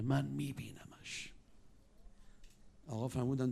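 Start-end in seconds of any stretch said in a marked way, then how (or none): 0.0-1.3 soft slow whisper ending the poem; whispered line. Acted. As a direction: breathe it out like a secret. Poem line, heart's secret. (نجوای آرام و کشیده)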